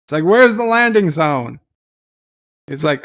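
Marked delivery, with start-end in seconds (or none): 0.2-1.6 "Where's the landing zone?" barked higher and louder; demanding shout. Retold or imitated. Interrogator loses patience and yells at the captive. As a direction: hammer the question home, louder.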